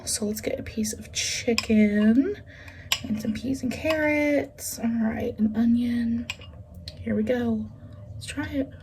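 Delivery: soft whisper over the bowl; hushed, breathy aside to the mic. Real, not acted. Whispered while serving a bite.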